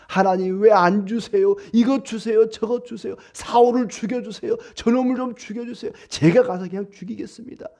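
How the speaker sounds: put-on whining child-like believer. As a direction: whine to God like a fussing baby. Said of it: "막 떼를 쓰고 울면서 젖을 달라고". (보채는 아이처럼 높고 칭얼대는 목소리)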